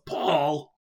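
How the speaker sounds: mild retold yell; mock yell at a son; yelled name. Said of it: "and then she yells".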